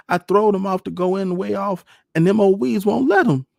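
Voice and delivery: high, loud, wailing complaint; weeping child. A narrator's reading. Young son explains to Pa about the stuck ships, weeping. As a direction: wail it out as a heartbroken little boy.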